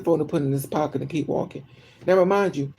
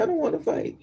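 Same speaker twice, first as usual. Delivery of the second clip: put-on whiny baby voice. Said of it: "And they say".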